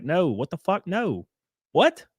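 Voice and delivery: mock disbelief, pitch rising to the last word; retold incredulous protest. Telling his friend it was sarcasm, retold incredulously.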